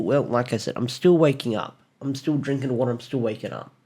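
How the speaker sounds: sleepy, just woken up; groggy. Real, not acted. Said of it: "if I sound groggy or if I sound a little, like, raspy".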